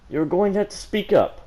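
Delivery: high, loud teacher's demand; brutal demand. A narrator's reading. Teacher demands the student speak up, loud and brutal. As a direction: bark it at the student. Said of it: "Mister Port said brutally".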